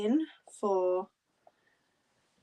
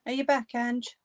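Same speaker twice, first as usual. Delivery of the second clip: calling out; 6 semitones higher, 4 dB louder than usual. Real, not acted. Calling out to Ange in house.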